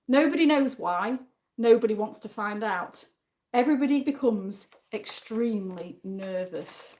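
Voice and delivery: deliberate card reading with pauses for suspense; game master narration. Acted. Reads the next game card.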